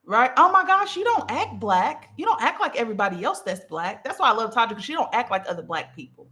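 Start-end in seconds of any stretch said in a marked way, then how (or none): 0.4-4.0 passive aggressive. Acted. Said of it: "That's passive aggressiveness".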